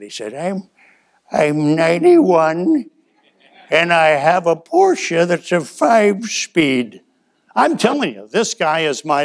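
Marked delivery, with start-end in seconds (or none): 0.3-7.0 put-on slow, drawn-out boast of an old man; proud old man. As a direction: savour the age like a trophy. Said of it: "he didn't say it like that".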